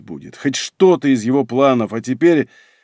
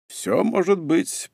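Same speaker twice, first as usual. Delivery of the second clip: slow, understated delivery, higher in pitch; emotionless; 5 semitones higher, 3 dB quieter, slower than usual. A narrator's reading. Emperor answering his son's accusation of paranoia, emotionless. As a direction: give it slowly with no feeling. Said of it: "произнёс император без эмоций".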